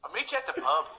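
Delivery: high laughing Irish brogue; mock drunk Irish pub voice; Irish drunk cartoon. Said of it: "Irish drunk cartoon character".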